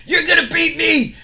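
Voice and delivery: laughing high and loud in scorn; mocking laugh. Scott Steiner mocking Shane Helms's threat, scornful laughter. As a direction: laugh right in his face. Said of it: "Scott Steiner starts laughing".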